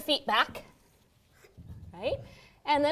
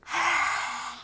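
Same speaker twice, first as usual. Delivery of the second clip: lion breath; 3 semitones higher, 4 dB quieter than usual. Shown as a demonstration. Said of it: "we're gonna go".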